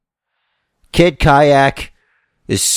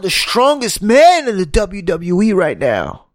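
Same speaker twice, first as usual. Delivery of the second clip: Bray Wyatt; 10 semitones higher than usual. Acted. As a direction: lure him in like a creepy preacher. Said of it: "I gotta get in some Bray Wyatt mode".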